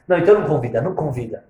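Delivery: loud no, don't invite them; insistent objection. Acted. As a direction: shut the idea down firmly. Acted argument over inviting guests.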